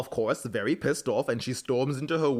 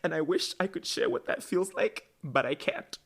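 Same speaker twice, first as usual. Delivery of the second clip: higher, softly pleading, imitated breaking voice; retold voice cracking; 3 semitones higher, 3 dB quieter than usual. Retelling Bonnie breaking down in her monologue, voice cracking. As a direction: let it rise and weaken toward the end. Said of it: "her voice starts to crack, and she starts to sob".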